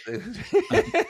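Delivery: words dissolving into a high laugh. Real, not acted. Guest trying to answer, breaking into high laughter. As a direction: try to talk and lose it to laughter. Both laughing over quotes.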